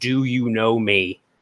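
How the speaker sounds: ordinary delivery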